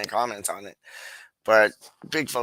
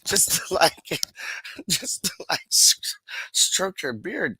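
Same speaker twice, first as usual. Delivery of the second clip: laughing tease; 6 semitones higher than usual. Acted. Teasing Doc with laughs.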